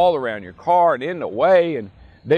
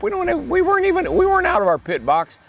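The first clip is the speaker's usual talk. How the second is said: high, indignant mock outburst; retold protest. Driver telling his crew chief they weren't out of the pit box, with high indignation. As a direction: insist hotly that you were inside the box.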